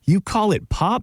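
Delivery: high, slow, mock-shocked question; can't believe she says pop; incredulous. Real, not acted. Host teases guest over saying pop, mock disbelief.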